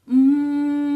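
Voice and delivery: loud, high hum; resonant hum. Shown as a demonstration. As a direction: hum into the mask. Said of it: "keep that quality".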